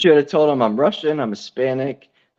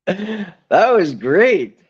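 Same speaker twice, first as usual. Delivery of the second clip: put-on Russian accent; 6 semitones higher, much slower than usual. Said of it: "your Russian".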